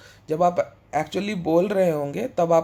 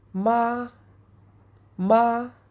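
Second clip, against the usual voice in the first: ma said with a high, level first tone; 5 semitones higher than usual. Mandarin tones taught in hindi, practising the first tone: flat first tone on ma. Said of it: "in the first tone जो फ्लैट है, माँ का साउंड ऐसा आएगा".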